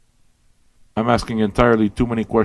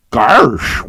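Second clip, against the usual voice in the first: a quick "Garsh!" in a cartoon dog voice, a bit louder; Goofy voice; 5 dB louder than usual. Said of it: "Why does he talk like that?".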